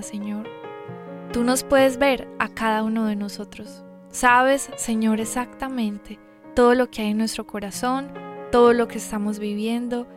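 soft, earnest prayer voice. Acted. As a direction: pray quietly and sincerely. Leads an opening prayer.

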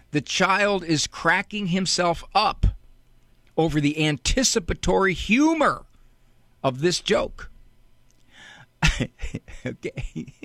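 ordinary delivery

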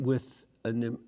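ordinary delivery

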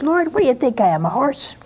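quick, peeved retort, only lightly acted; mild mock anger. Young sister grumbling at the Lord over a 3 a.m. call, mock peeved. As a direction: toss off a grumpy complaint to God. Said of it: "And I got so mad".

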